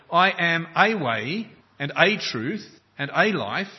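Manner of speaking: "a" said lightly but marked in "I am a way and a truth and a life", slow and deliberate; stress on the wrong article. Shown as a demonstration. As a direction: lean on each "a" to show the wrong reading. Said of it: "Jesus doesn't say".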